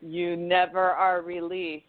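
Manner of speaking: slow, spooky ominous line; scary voice. Acted. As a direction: say it like a ghost story. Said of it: "I say that in a scary voice".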